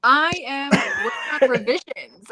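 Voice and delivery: breathy stage whisper. Acted. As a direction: whisper it like a secret. Whispered answer, then repeated plainly.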